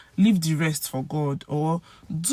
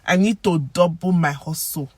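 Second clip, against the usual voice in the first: ordinary delivery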